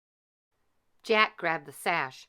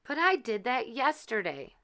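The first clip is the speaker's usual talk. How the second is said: higher pleading protest; 6 semitones higher than usual. A narrator's reading. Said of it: "said Cinderella".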